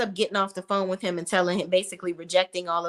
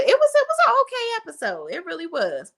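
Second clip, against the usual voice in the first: wry half-hearted verdict; 9 semitones higher, faster than usual. Real, not acted. Vlogger judges the episode.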